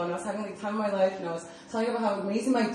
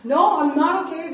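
higher, louder, frustrated "no I'm not okay"; answering her friend, loud and upset; retold upset reply; 8 semitones higher, 6 dB louder than usual. To her roommate, a loud, upset no. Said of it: "And I'm like".

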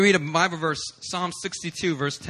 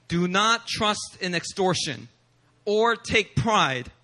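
reading scripture; slower than usual. Shown as a demonstration. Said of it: "it says".

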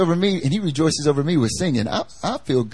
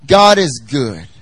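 sincere repeat; 5 dB louder, slower than usual. Shown as a demonstration. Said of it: "how many of us really believe it".

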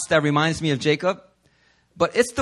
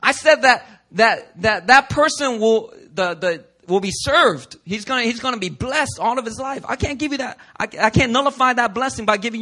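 Isaac refusing; 5 semitones higher than usual. Retold or imitated. Isaac refuses Esau's plea, firm and raised. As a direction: hold firm, you can't take it back. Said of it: "And Isaac's like".

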